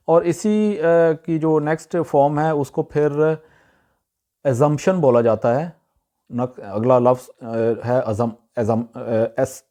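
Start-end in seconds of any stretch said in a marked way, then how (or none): 4.4-5.0 "ازمپشن" with "z": a-ZUMP-shun; common mispronunciation. Shown as a demonstration. Teacher moves to next form of the word, mispronounced. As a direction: buzz the "z" in "ازمپشن". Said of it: "لیکن اس کا صحیح تلفظ ہے".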